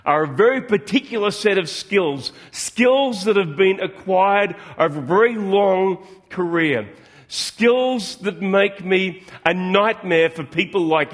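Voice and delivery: slow, measured menace; a hint of a calm threat from a film hero; quoting Liam Neeson. Pastor quoting a kidnap film's hero, slow mock menace. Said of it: "He says".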